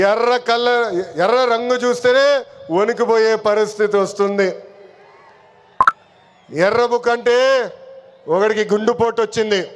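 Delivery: projected oratory with long pauses; political rally speech. Real, not acted. Party leader addressing the workers at a public meeting, rally oratory. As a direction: address a big crowd, phrase by phrase.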